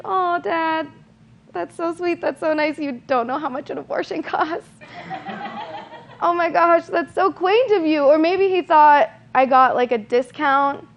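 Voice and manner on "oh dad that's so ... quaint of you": mock condescending sweetness. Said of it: "And I was like".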